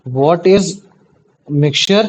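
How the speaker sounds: word by word with long pauses; dictating. Real, not acted. Teacher gives class a question to write, dictating in pieces. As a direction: dictate slowly for note-taking, pausing between words.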